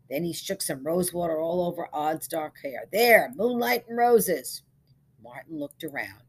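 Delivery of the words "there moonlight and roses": high, loud, slow presentation; grand flourish. A narrator's reading. Barber shakes rose water on Odd, grand flourish. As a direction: announce it with relish. Barber finishes perfuming the groom.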